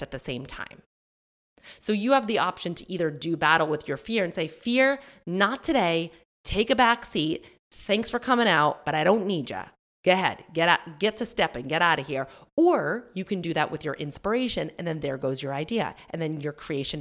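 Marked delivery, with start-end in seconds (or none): 4.5-12.3 sassy dismissal. Acted. Talking back to her fear, a sassy telling-off. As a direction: shoo fear out the door.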